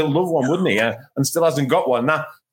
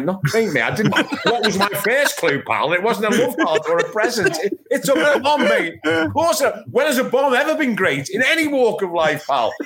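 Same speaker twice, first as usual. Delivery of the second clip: high, laughing, exasperated mock outrage; exasperated retort; 6 semitones higher than usual. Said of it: "I'm like".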